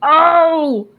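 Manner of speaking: high, loud, drawn-out call. Acted. Grandma super mutant spots Orion from down the farm, calling out. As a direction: coo it out loudly and high from afar. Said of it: "the voice calls out".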